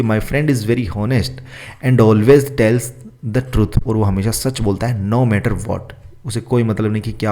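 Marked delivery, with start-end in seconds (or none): 0.0-3.9 very slow, word by word for copying; slow dictation. Shown as a demonstration. Teacher dictating the question to students, slow and careful. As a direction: read it out slowly so students can write. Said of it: "वैसे लिखना है अपने को honest".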